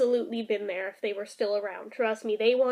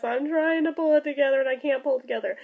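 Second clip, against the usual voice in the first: mock sobbing; faster than usual. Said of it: "sobbing mess".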